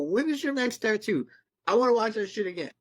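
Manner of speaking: eager excitement. Retold or imitated. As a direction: rush it out like a fan who can't wait. Eager to watch again.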